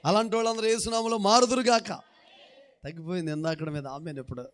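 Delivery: normal talking voice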